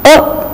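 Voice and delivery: "A" as a soft, weak uh; schwa demo. Shown as a demonstration. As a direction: say "A" as a short neutral uh. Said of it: "This sound is represented by inverted E".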